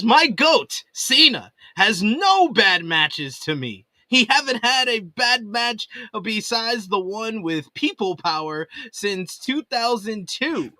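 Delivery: sarcastic voice. Acted. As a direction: read the fan's praise with mock enthusiasm. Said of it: "with that sarcastic voice".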